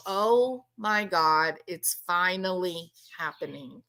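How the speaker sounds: slow, sinking realisation; imagined dread, slowly dawning; mock dread. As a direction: draw it out, dropping low and quiet. Imagined guilty man's dread.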